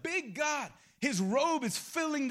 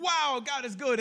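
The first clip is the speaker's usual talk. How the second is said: higher, louder burst of wonder; amazed; 4 semitones higher, 5 dB louder than usual. Acted. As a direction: exclaim it in acted awe. Acting Isaiah's amazement looking up.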